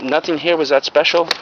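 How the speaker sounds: ordinary delivery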